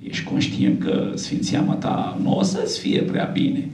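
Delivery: hushed, slow, secretive warning; warning whisper. Retold or imitated. Villagers warn the priest, whispered, slow. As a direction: breathe it like a risky secret. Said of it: "unii mi-au spus".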